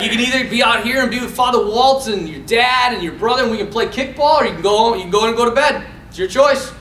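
firm dad. Retold or imitated. Dad giving son a choice, mildly stern imitation. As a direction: imitate a father spelling out the choice.

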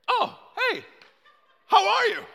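squeaky high-pitched nervous greeting; scared high voice. Retold or imitated. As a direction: greet them in a voice gone high with fear. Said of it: "You know when your voice gets high-pitched".

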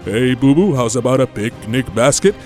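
jovial, booming cartoon bear; cheery cartoon bear voice; Yogi Bear. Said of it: "Yogi Bear and Boo Boo".

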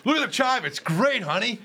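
husband's sales pitch. Retold or imitated. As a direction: sell it to the wife, half-joking. Husband pitching website to wife.

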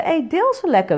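normal talking voice

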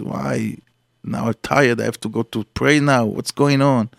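soft, sulky grumble of a tired man; grumbling complaint. Acted. A tired man cursing everyone, grumbling softly. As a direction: mutter it resentfully, half asleep. Grumpy man forced awake.

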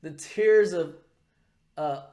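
high, slow, savouring cartoon voice; Cartman. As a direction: relish every word in mock ecstasy. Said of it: "what he says".

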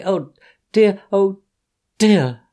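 high loud wail rising on the first dear; sobbing oh dear. Acted. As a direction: wail it up then let it fall. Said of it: "sobbed Toad".

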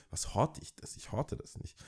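voiceless whisper under his breath; whispered aside. Real, not acted. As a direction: drop to a bare whisper, half to himself. (leise geflüsterte Nebenbemerkung)

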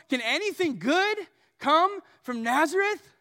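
mock disbelief; sarcastic. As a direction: scoff at the very idea. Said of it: "listen to this sarcasm".

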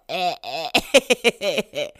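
short, punchy horn blats; imitated horn blats. Showing the sound of real horns, punchy imitated blats. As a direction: punch out little horn stabs with the mouth. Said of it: "something about horns with that little".

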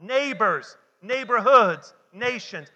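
loud, punched call to the congregation; leading a loud group chant; real loud. Shown as a demonstration. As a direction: belt out each word for everyone to repeat. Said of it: "Now say it real loud".

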